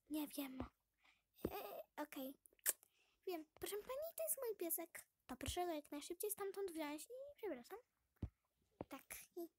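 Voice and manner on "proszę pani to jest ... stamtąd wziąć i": pretend dog owner. Dog owner character answers shopkeeper.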